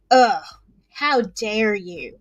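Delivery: low, slow, offended "how dare you"; retold indignation. Guest recalls reacting to nosy Facebook comment, indignant. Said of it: "really made me mad".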